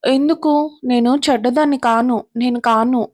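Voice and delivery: put-on a touch of a hurt child pleading. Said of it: "శ్రావ్య బాధపడుతూ".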